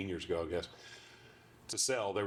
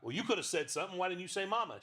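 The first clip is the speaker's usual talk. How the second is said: coaxing owner; 10 semitones higher, faster than usual. Acted. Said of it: "can you do the voice".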